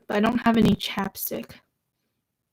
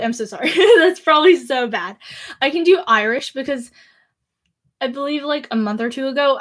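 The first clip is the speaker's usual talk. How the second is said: usual speaking voice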